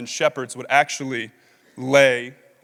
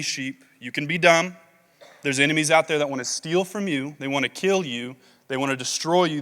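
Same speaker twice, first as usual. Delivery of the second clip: tender pleading Jesus; 3 dB louder than usual. Retold or imitated. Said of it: "He's saying".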